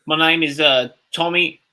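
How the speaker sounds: put-on British accent, feeling for a fake name. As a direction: attempt a rough British accent. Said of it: "Give me a British alias".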